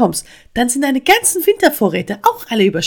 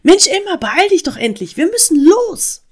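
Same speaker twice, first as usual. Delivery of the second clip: high, loud, urgent nagging; eindringliches Rufen; 11 semitones higher, 6 dB louder than usual. A narrator's reading. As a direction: hurry someone along insistently. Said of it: "rief die Stimme eindringlich". (eindringlich drängend rufen)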